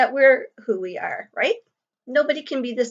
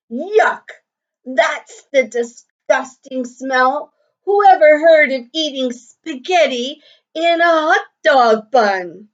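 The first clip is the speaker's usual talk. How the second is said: louder, higher mocking holler across the table; 4 semitones higher, 5 dB louder than usual. Ralph hollers across the lunch table at the girls, loud and mocking. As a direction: jeer at their lunch. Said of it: "Ralph hollered".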